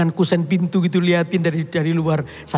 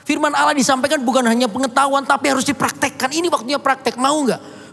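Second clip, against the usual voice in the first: higher, insistent pastor lecturing the son; preachy exhortation; 5 semitones higher than usual. Retold or imitated. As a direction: press him firmly to practise the word. (menasihati dengan tegas, nada lebih tinggi)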